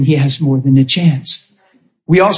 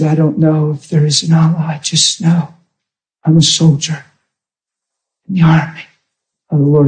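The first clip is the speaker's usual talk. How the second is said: retold dying words. Preacher retelling the dying boy's last answer, lightly imitated halting speech. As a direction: lightly imitate a boy short of breath, phrase by phrase. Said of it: "and he gasped for breath".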